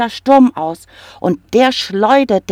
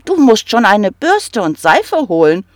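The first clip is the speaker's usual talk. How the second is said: kobold calling out; 4 semitones higher, 5 dB louder than usual. Acted. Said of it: "rief der kleine Kobold".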